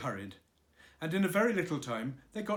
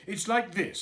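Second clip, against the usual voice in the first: higher, louder Pooh voice, halting; Pooh fumbling; 7 semitones higher, 7 dB louder than usual. Acted. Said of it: "said Pooh".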